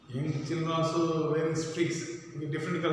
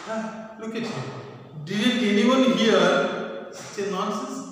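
slow, louder and higher scolding; angry scolding; 5 semitones higher, 3 dB louder than usual. Acted. Marilla scolding Anne in angry disbelief. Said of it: "Marilla got very angry".

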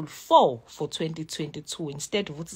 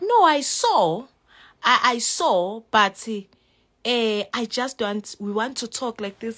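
higher, louder imitation of the lady; mock lady voice; 4 semitones higher, 7 dB louder than usual. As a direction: play the lady, pitched up and insistent. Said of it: "She's like".

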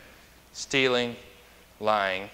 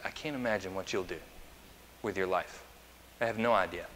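put-on hushed musing over a baby; quietly marvel, much softer; soft wondering; 3 semitones lower, 7 dB quieter, faster than usual. Parent looking at a two-month-old, soft wonder.

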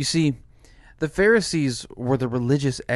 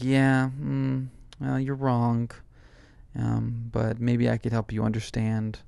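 condescending pastor; 2 semitones lower than usual. Retold or imitated. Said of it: "pastor's face will just kinda turn condescending".

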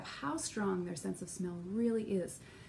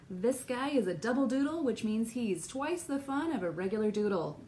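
sarcastic. Real, not acted. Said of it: "Said with a lot of sarcasm".

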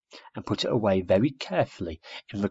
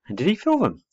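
high, eager, wide-eyed question; breathed wonder; 9 semitones higher, 5 dB louder than usual. A narrator's reading. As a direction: let the pitch soar with wonder, louder. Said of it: "breathed Pop".

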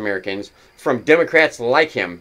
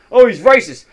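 mocking voice; 6 semitones higher, 6 dB louder than usual. Mocking Democrats' accusation.

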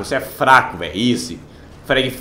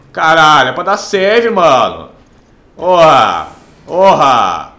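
frustrated yelling; 2 semitones higher, 5 dB louder, much slower than usual. Real, not acted. Frustrated game didn't save.

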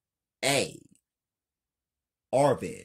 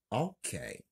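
calm; 4 dB quieter than usual. Acted. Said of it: "Kelly, calmly".

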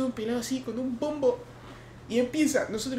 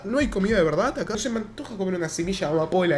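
fast annoyed complaint; faster than usual. Retold or imitated. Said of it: "Y yo dije".

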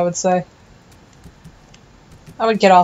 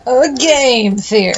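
mock show host; 3 semitones higher, slower than usual. Parodies a theory show's catchphrase.

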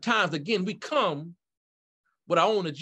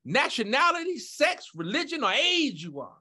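fervent preaching. Real, not acted. Preacher invites everyone at the altar call, fervent preaching. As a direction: preach it out, pitch climbing through the list.

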